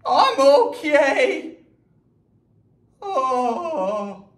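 high, fast, giggly panic; panicked passenger. Acted. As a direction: act dizzy and scared on the plane. Acted dizzy passenger.

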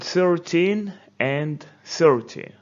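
thirTEEN then THIRty, teacher modelling; stress contrast. Shown as a demonstration. Teacher models stress for students. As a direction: show where each stress falls. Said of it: "Where does the stress go?".

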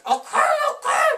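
high squeaky laughing okay; laughing surrender. Retold or imitated. Taylor gives up to his aunt, high laughing surrender. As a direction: give in through laughter. Nodding giving up.

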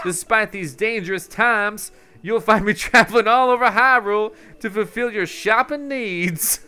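put-on high, loud traveling salesman accent; Beetle. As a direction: pitch your wares in a high, hammed-up accent. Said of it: "why I gave him that accent".

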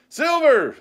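very high, loud cheer; crowd cry. A narrator's reading. Mutineers hailing their leader, cheering cry. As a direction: shout the name like a rallying crew. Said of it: "they cried".

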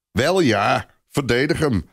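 put-on a sergeant telling off the man defending the boy; grumbling rant. A narrator's reading. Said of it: "voetert de sergeant".

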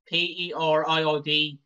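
slow, letter by letter; spelling out the word slowly, like a kid avoiding saying it; spelled out. Acted. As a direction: spell it out coyly so no one hears the word.

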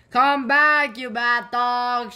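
high loud call, slowing on bad dog; shout after dog. A narrator's reading. Chip calling the runaway Floppy back, loud shout. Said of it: "shouted Chip".

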